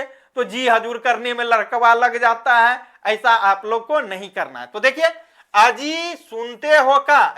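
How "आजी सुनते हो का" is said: dialect call to husband. Shown as a demonstration. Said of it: "ऐसा बोलते हैं".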